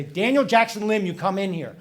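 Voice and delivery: someone summoning DJ by his full name, mock stern call; mock stern summons. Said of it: "someone's gonna call him by his full name".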